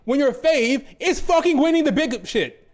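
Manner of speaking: real exasperation, voice climbing; exasperated rant. Real, not acted. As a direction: blow up at the complainers. Ranting at complaining fans.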